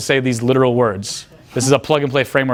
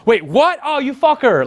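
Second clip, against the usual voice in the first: mock surprise; 10 semitones higher, slower than usual. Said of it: "the girls are like".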